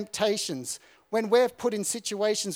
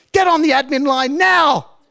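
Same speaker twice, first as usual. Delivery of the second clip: loud, higher barked command; drill corporal order; 7 semitones higher, 11 dB louder than usual. Retold or imitated. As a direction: snap out the order like a drill sergeant.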